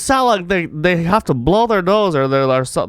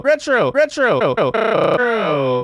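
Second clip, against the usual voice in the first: robotic drawn-out echo; much slower than usual. Shown as a demonstration. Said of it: "I sound like I'm in the Matrix".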